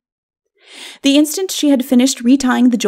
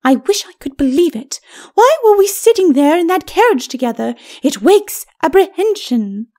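high, uneasy lady's voice; high ladyship, slowing on the last words; troubled ghostly lady; 8 semitones higher than usual. Acted. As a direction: voice a stately wife with growing apprehension. Lady's character voice.

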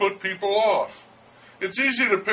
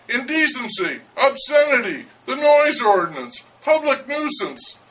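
indignant list; 5 semitones higher than usual. Acted. Baker listing offences.

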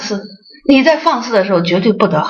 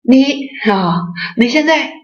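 higher, pushy disciple voice calling master; lightly mock a disciple checking up on the master; demanding disciple; 6 semitones higher than usual. Disciple demanding the master report what he is doing, higher and pushy. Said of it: "然后说".

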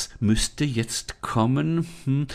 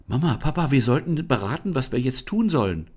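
calling out; 5 semitones higher, 3 dB louder than usual. Acted. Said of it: "rief Lisa".

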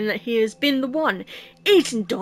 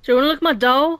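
creepy doll voice; 3 semitones higher, 6 dB louder, much faster than usual. Acted. Creepy doll line in horror game.

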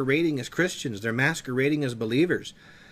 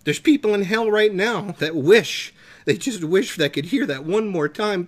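impassioned pleading; 5 semitones higher than usual. Real, not acted. Fervent preaching about souls in hell.

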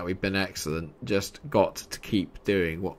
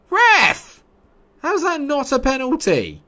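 very high, loud protest at the referee; high-pitched indignant yelling; outraged shout; 8 dB louder than usual. Real, not acted. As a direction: yell your disbelief at the ref.

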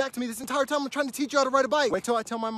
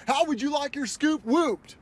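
hyped greeting; 4 semitones higher, slower than usual. Shown as a demonstration. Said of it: "can you do it again".

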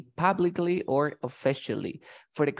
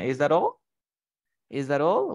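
pointed, unkind question with a rise; mock sneer. Shown as a demonstration. Teacher acting out an unkind remark to Raul, sneering. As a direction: ask it to needle, with mild sarcasm. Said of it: "in an unkind way".

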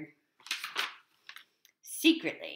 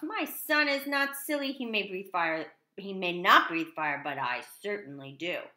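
angry dragon father. Acted. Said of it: "father stormed out".

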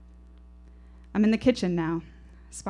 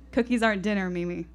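mock serious; 4 dB louder than usual. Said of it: "I say, positively serious".

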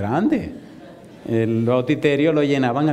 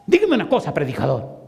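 mock-furious hitman, starting high and dropping; imitated angry demand; angry retort; 4 semitones higher than usual. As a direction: challenge the preacher angrily, voice leaping up on the first word.

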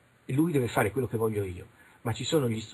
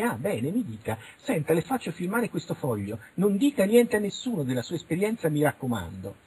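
lightly acted interviewer, higher-pitched; mock investigator; 5 semitones higher than usual. Investigator having a witness sign, lightly mocked official voice. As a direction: imitate an official dismissing a witness. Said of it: "fanno le indagini".

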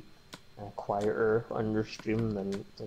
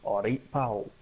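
Scottish brogue. Shown as a demonstration. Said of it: "the strong Scottish brogue is like".

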